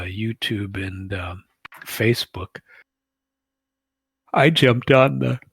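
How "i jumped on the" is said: said through a yawn; words stretched by a real yawn. Real, not acted. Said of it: "sorry for the yawn there".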